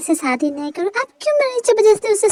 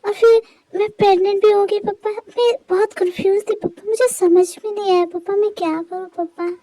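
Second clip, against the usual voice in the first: tearful plea. Acted. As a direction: beg him through tears to understand. Daughter confessing, apologising to father.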